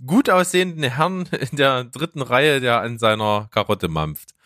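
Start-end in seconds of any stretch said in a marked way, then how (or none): 0.1-2.6 light mock auctioneer call; going once, going twice, lightly hammed.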